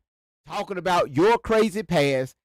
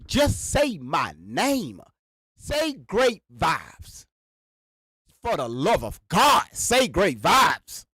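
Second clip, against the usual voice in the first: slow pleading demand; 2 semitones lower, much slower than usual. Real, not acted. Exasperated plea to say his name.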